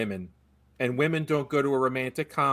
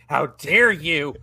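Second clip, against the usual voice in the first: slow and louder mock indignation; mock outrage; 6 dB louder, much slower than usual. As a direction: drag each word out, hamming it up.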